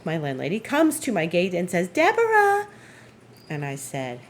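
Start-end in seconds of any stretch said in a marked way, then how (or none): 1.9-2.7 calling out. Retold or imitated. Landlady calls her name at gate.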